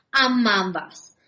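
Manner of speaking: slow, gruff growled threat; growling brute. Acted. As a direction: growl it like a bulldog henchman. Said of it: "zavrčel".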